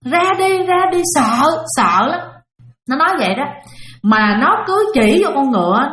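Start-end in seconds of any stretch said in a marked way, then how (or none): 0.1-2.2 imitating a scared toddler crying, pitched higher; higher, whiny child's plea, mock crying. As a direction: mimic a frightened little boy begging to stop. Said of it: "nó khóc nha, mà nó nói vậy nè".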